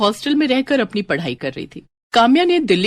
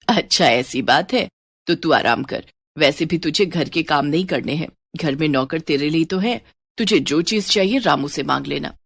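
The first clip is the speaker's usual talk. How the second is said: a lower, welcoming mother-in-law voice; mother-in-law welcoming her new daughter-in-law, a touch lower; lightly voiced mother-in-law; 5 semitones lower than usual.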